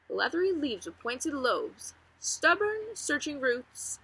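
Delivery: reading a novel aloud to the class; story narration. Acted. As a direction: tell it like a friendly storyteller, lively and unhurried. Teacher reads chapter two aloud.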